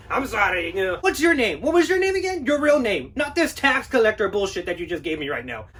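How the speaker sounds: shrill up in outrage at the claim; indignant homeowner. Acted. Homeowner demands his name.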